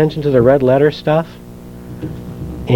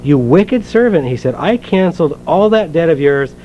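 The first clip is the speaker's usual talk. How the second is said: measured, earnest Bible reading aloud; scripture reading. Acted. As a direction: read the parable to the congregation, steady and clear. Reads the parable from Matthew.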